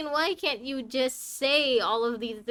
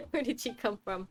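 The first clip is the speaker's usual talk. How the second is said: laughing off the fright; nervous laugh. Real, not acted. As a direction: chuckle through the words. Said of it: "you scared me too".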